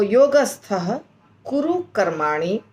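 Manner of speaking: slow recitation. Shown as a demonstration. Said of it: "योगस्थ कुरु कर्माणि के बाद रुकना है".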